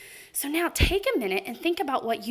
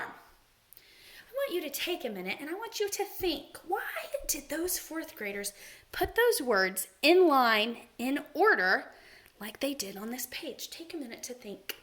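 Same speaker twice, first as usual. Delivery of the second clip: soft, half-whispered invitation to think; quiet classroom whisper; hushed thinking prompt; 3 dB quieter than usual. Acted. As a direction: lean in and hush the class. Teacher gives think time softly.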